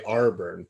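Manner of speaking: "Arburn", first syllable said as "Ar"; local pronunciation. Shown as a demonstration. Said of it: "kids down here also say".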